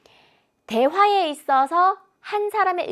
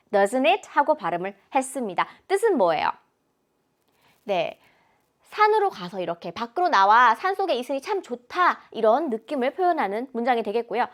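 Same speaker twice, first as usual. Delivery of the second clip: usual speaking voice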